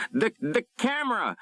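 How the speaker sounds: trapped pilot crying out in fright; alarmed cry. A narrator's reading. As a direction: blurt it out in fright. Pilot in panic.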